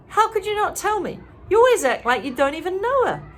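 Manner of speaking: a friend's annoyed outburst. A narrator's reading. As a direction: push back, exasperated. Annoyed narrator confronting Olivia.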